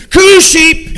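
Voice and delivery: loud high call across the meadow; shepherd yelling for his lamb. Acted. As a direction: call out to the lost sheep. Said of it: "And he's yelling".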